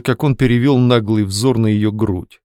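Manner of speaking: ordinary delivery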